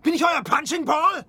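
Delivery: shouted complaint at the others; an indignant shout in the dark; indignant outburst. Acted. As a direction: snap at them for being knocked about. Bumped into hammock at night.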